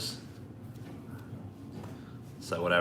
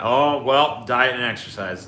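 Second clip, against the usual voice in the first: higher, louder, condescending doctor; mock smug doctor; 3 semitones higher, 4 dB louder, slower than usual. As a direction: brush off the patient with a stock answer. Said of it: "every doctor has got that".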